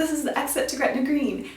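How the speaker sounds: normal talking voice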